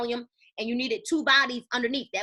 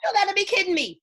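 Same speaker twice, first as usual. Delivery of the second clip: scoffing disbelief; 5 semitones higher, 4 dB louder than usual. Real, not acted. Scoffing at cheap offer.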